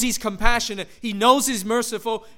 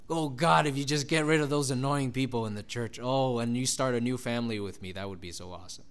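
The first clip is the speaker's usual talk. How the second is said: pastor's secret prayer; 8 semitones lower, 6 dB quieter than usual. Pretend. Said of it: "that secret dream they have".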